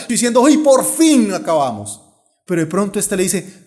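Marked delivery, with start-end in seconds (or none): 0.4-2.0 loud, drawn-out exasperated cry; angry relief. Acted. Men dropping the load after a mile, angry relief. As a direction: throw it down with a fed-up shout. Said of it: "la tiran con rabia".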